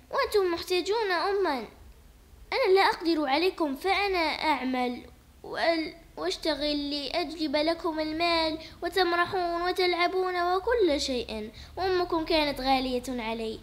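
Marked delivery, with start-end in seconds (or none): 3.7-11.5 tearful plea. Acted. Father pleading, tearful.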